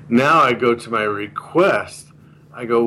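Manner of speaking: ordinary talk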